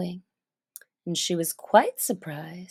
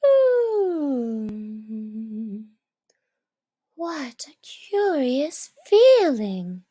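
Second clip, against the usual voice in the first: Alice amazed; slower than usual. Acted. Alice marveling at shrinking, a wondering girl's voice.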